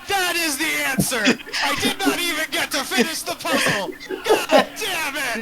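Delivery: high, laughing mock outrage; laughing outcry. Real, not acted. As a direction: laugh out your frustration. Puzzle solved before he finished.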